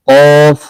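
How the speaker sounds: weighty back-of-throat "qawf", held; heavy-throated কফ. Shown as a demonstration. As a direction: make the throat heavy and full on কফ. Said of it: "একটু গলাটা ভারী করে".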